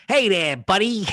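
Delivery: lightly voiced old-time bartender; a hint of a tough old barkeep. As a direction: play an old bartender hailing a customer. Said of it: "talk to you like an old bartender".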